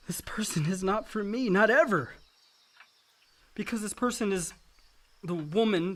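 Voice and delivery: soft breathless whisper, barely voiced; whispered confession. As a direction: confess it under your breath. Hushed confession of forbidden love.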